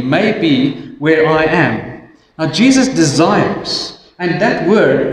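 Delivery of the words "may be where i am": slow, weighty reading. Shown as a demonstration. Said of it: "consider for a moment that last phrase".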